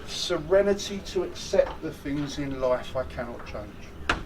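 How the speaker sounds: calm slow recitation. Shown as a demonstration. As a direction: let "Serenity" settle in gently, unhurried. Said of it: "grant me the serenity".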